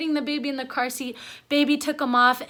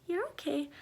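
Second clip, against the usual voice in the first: soft reassurance; 12 dB quieter than usual. Real, not acted. Reassures her fussing baby nearby.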